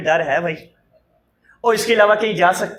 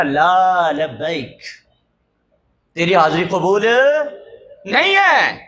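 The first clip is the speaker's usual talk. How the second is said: very slow, lower, distant لا لبیک; voice from heaven; 4 semitones lower, slower than usual. Retold or imitated. Hidden voice answering the old pilgrim, slow and low. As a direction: let it fall like an unseen voice from above. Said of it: "آگے صدا آئی نا".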